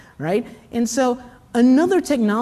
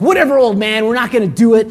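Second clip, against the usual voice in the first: louder, mildly bratty comeback; hammed-up schoolkid defiance; mock defiance; 5 dB louder, faster than usual. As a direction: brush the teacher off like a rebellious kid. Kids defy the teacher, acted.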